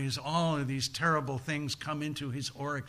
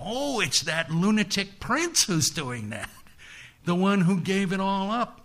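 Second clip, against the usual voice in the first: higher-pitched, exasperated realization; dawning recognition; 5 semitones higher than usual. Acted. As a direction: gods looking down, spotting the culprit. Gods spot the troublesome prince.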